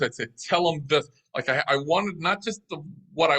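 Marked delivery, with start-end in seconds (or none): 0.5-1.1 firm, commanding order; authoritative. Retold or imitated. Boss instructing a weak translator, authoritative. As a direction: say it with authority in your voice. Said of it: "have some authority in my voice".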